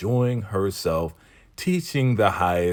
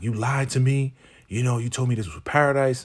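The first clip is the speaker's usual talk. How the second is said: higher-pitched retold outrage; mock going off; 5 semitones higher, faster than usual. Lynn confronting him over the lie, mock outraged. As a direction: imitate someone going off, indignant. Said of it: "starts to go off like".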